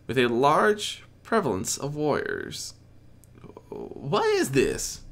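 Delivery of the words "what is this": slow, puzzled demand; confused demand. A narrator's reading. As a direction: demand it, baffled. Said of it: "Applejack demanded in confusion".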